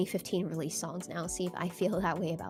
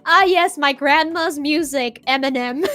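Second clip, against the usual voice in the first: mock nostalgic; 5 semitones higher, 7 dB louder than usual. Joking bit about grandma music.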